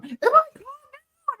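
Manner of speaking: put-on high, slow little-boy question; mock-whiny son asking mom; confused kid. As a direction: ask it like a lost small child. Son asks, voiced in story.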